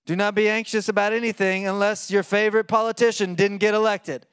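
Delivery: sarcastic wrong reading of the verse; mock misquote. Shown as a demonstration. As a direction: read it as the twisted version people live by.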